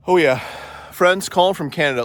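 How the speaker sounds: winded after the walk; breathless; out of breath. Real, not acted. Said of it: "a little out of breath".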